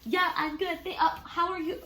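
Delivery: high, loud, flustered imitation; acting out a panicked scramble to answer; panicked reply. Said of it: "I would, like, get so panicked".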